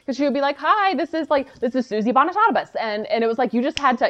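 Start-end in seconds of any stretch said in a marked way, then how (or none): 0.6-2.7 lightly voiced higher phone-style greeting; imitated client introducing herself. Host imitating her client saying hello, brisk higher introduction. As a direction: rattle off the name like its owner. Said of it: "just say it fast every time".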